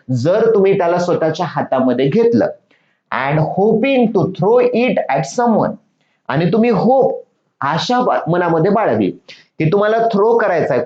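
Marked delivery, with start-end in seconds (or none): 3.1-5.7 each English word read slowly and clearly to pupils; slow reading of the story. Shown as a demonstration. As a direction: read the line word by word for the class. Teacher reads story text slowly. (मुलांना सावकाश वाचून दाखवणे)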